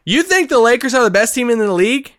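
can't believe what he hears; incredulous. Real, not acted. Host doubting cohost's Lakers pick, incredulous.

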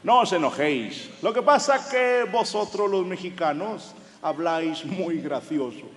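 put-on Manolo in a Castilian accent, slow; Spain Spanish accent. Manolo tells the Mexicans they talk funny, Castilian accent. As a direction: imitate a Spaniard from Spain, amused. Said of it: "Dice Manolo".

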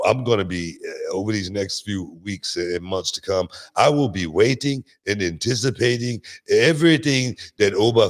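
put-on lightly done Jamaican accent, hyping a wrestler; a hint of Jamaican accent, excited praise. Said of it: "that's my Jamaican accent".

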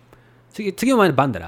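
Mikawa Japanese, "だろ" said as "dara"; Mikawa dialect. Shown as a demonstration. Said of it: "Mikawa dialect is".

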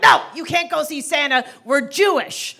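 lightly voiced mother putting her foot down; firm refusal. Mother refusing child's request.

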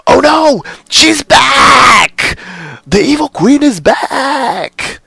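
high, loud, wailing cry of alarm; dramatic panic. Retold or imitated. Dwarves spotting the evil queen, high loud panicked wail. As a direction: shriek it like frightened dwarves fleeing. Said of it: "That was very dramatic".

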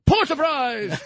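high, slow mock-genius formula, hammed up; mock professor voice. Host mocking MIT professor with a high put-on voice. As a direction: play the pompous scientist spouting nonsense.

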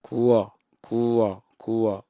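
권 split into two slow parts, くわ, くわ; slow broken-down 권. Shown as a demonstration. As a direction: stretch 권 out as くわ before joining it. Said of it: "それを早く発音して".

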